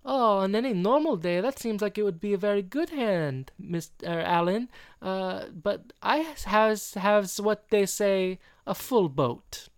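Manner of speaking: high fake French accent, slowing as it goes; Rodique. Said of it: "he's doing a very fake French accent".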